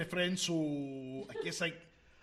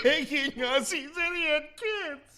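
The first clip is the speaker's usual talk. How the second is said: louder, much higher anguished protest; upset pleading; 10 semitones higher, 7 dB louder than usual. Acted. Player protests to Hagrid with loud upset pleading. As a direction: blurt it out in distress.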